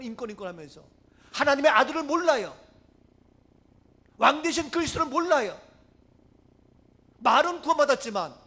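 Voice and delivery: loud, high fervent sermon delivery; full-force preaching. Acted. Preacher exhorting the church about Christ, fervent preaching. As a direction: preach it out to the congregation.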